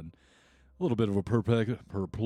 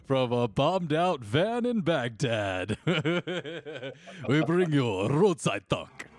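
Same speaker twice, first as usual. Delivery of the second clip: Harry Shearer impression; 4 semitones higher, slower than usual. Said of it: "Harry Shearer, uh, does".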